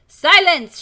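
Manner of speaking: loud, high French command; French accent. Acted. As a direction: bark it at the pupil in a French accent. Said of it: "She's French as well".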